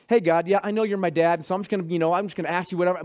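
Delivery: casual, offhand "Hey, God, yeah"; tossed off like chatting to a buddy; flippant prayer. Shown as a demonstration. Preacher shows church a careless prayer, offhand and casual. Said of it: "with the Lord flippantly".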